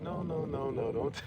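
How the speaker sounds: high-pitched imitation of a woman refusing; mock protest. Woman told he likes her, high mock protest. Retold woman fends off a confession.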